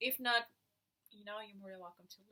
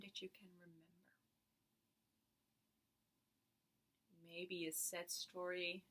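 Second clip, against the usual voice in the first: guided meditation. Acted. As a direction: lead them gently into stillness.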